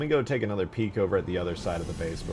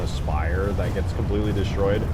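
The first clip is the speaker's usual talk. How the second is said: louder eager gushing; excited; 6 dB louder than usual. Real, not acted. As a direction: bubble over with glee. Wired, gushing about destruction.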